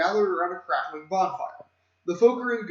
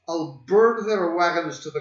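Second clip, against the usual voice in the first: stern duchess threat; 3 dB louder than usual. Acted.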